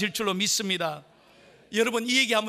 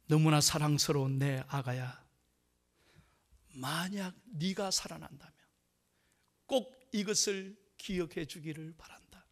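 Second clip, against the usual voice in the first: hushed, loving farewell from a mother; tender last message; 4 semitones lower, 4 dB quieter than usual. Retold or imitated. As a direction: read softly and low, fading into a whisper. Dying mother's last message, quoted.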